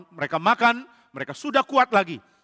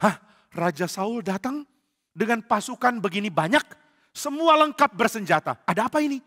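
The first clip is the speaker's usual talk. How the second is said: startled priest; 3 semitones higher than usual. Acted. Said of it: "Ahimelek kaget".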